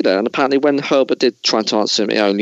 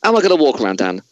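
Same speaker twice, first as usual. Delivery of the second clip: raised, hammed-up ranting actor; Christian Bale tirade; 3 semitones higher, faster than usual. Host as Christian Bale rants at crew, hammed-up fury. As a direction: play the furious star dressing down the crew. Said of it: "I'm gonna be Christian Bale".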